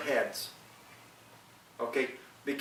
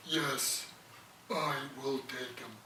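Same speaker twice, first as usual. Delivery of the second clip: whale's voice; 10 dB quieter, slower than usual. Acted. Whale uncle agreeing to carry his nephew, lightly voiced soft whale. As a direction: answer softly like the great whale. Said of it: "I used to talk like that, 'cause he was a whale".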